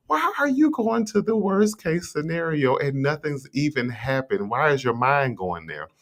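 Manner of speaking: high, disbelieving question; incredulous question. Acted. Asking a friend why they expect the worst, high disbelief. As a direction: ask it like they're being silly.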